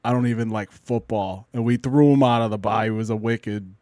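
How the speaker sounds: lightly put-on Boston accent; a hint of a rough Boston guy, barely pushed. Telling a bar story to friends in light Boston accent. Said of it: "wicked dirty Boston voice".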